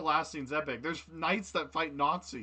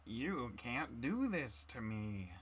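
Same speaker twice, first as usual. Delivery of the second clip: slow, softer villain line; Willem Dafoe impression; 7 dB quieter, much slower than usual. Second try at Dafoe for friends, slow and soft. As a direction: draw it out slowly, quietly menacing. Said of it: "the William Dafoe".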